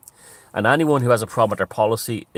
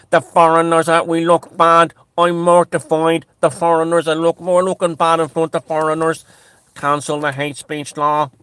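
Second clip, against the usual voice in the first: mock panicked government; 8 semitones higher, 8 dB louder than usual. Government panicking at foreign criticism, hammed-up mortified minister. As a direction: ham up a politician mortified at looking bad.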